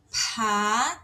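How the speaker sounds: "Pá" with a big burst of air after P; strongly puffed P. Shown as a demonstration. Teacher showing aspirated P to learners, strongly puffed. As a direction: blow hard on the P of "Pá". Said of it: "Tem que soprar bastante".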